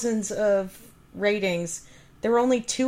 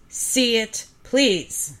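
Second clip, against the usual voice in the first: emphatic, punched read; all caps; 2 semitones higher, 4 dB louder, much slower than usual. Shown as a demonstration. Reading a film review's all-caps plea aloud, emphatic. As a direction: read it out as if written in capitals. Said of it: "All caps".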